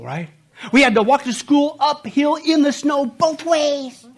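milk every hardship like a tall tale; exaggerating parent. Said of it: "The little parental exaggeration".

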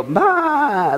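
lightly voiced sheep bleat; sheep baa. Host showing the congregation going baa like sheep. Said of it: "together and go".

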